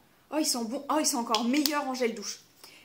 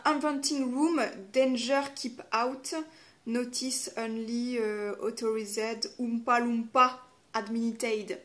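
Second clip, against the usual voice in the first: slow, halting English read with a French accent; clumsy English accent; slower than usual. Shown as a demonstration. Reading English signs on the palette in a French accent. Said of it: "mon accent anglais est très pourri".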